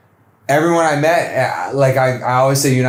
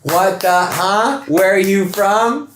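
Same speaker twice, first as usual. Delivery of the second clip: high, slow disbelieving questions; incredulous teasing; 6 semitones higher, slower than usual. Real, not acted. Teasing Laylee about her name mixups, high and disbelieving. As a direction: pile on the mock outrage. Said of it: "teasing disbelief at friend".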